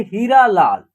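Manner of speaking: हीरा लाल with a brief first vowel; quick pronunciation. Shown as a demonstration. Teacher showing it is soon over, हीरा लाल said quickly. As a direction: run through हीरा लाल without stretching it. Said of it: "उच्चारण है जल्दी हो जा रहा है".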